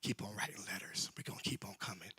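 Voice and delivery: low, soft mocking voice; lightly voiced scheming enemy; taunting enemies. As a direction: sneer like the enemy. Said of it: "Tobias and them say".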